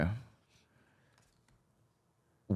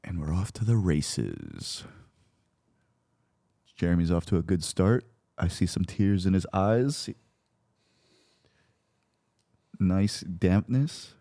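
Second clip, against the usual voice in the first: slow, low sportscaster call of a staring contest; mock race commentator; 6 semitones lower, 5 dB quieter, slower than usual. Host calling the staring match like a horse race, slow mock commentary. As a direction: drawl it out like a lazy race announcer.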